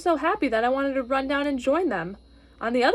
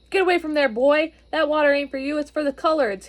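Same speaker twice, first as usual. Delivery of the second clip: louder, gruff order to clear off; angry policeman; 3 semitones higher, 4 dB louder than usual. Acted. Policeman drives a boy from the fountain, loud and harsh. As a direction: bark at the boy to get away.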